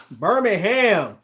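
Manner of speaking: "Birmingham" drawn out with a full "ham" ending; American-style Birmingham. Real, not acted. Guessing a viewer's hometown, "Birmingham" with a full "ham". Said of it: "you're saying it wrong".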